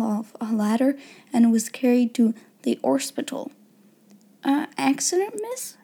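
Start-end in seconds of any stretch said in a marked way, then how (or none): 4.4-5.8 put-on high, timid servant girl; deferential, uncertain little voice; respectful flutter. A narrator's reading. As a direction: ask meekly, rising high on "miss". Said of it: "she fluttered respectfully".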